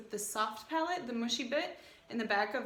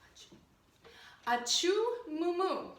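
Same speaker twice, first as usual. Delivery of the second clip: sneezing cow; 5 semitones higher than usual. Shown as a demonstration. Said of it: "can everyone say for me".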